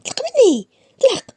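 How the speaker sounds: high loud let go of me; shouted let go. Acted. Aya pulling free from Issa, shouting. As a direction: yell to break free. She pulls free from him.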